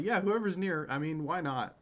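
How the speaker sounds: nonchalant. Acted. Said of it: "just nonchalantly".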